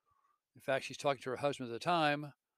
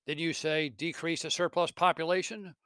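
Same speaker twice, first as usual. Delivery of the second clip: mocking ghost; 3 semitones higher, 4 dB louder than usual. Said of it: "The spirit mocks him".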